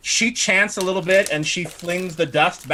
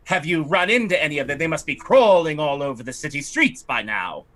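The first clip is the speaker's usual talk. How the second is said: a slightly raised, haughty lady's voice; fussy noblewoman. Acted. Lightly raised voice as the lady fretting to the party about her estate. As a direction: play the put-upon aristocrat lamenting her estate. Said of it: "she says".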